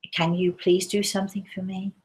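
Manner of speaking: soft, kindly request; gentle and kind. Retold or imitated. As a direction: ask gently, as if holding her hands. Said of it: "I say very gently and very kindly".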